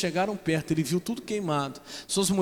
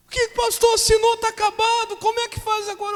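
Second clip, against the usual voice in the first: hammed-up despairing wife over the signed divorce; imitating crying woman; 7 dB louder than usual. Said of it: "tá essa irmã chorando". (irmã chorando ao pastor pelo divórcio, voz aguda e lamentosa)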